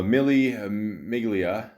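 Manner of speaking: "Mille Miglia" drawn out slowly, attempting Italian sounds; slow, tentative Italian "Mille Miglia"; careful Italian pronunciation. Real, not acted. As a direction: feel your way slowly through "Mille Miglia". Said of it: "the second one I said right".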